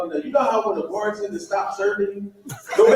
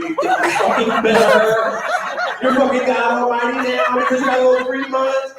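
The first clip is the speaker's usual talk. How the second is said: higher, half-laughing comeback at his wife; mock angry retort; 4 semitones higher than usual. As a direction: snap back at the wife, laughing. Retorting to wife, acted quarrel.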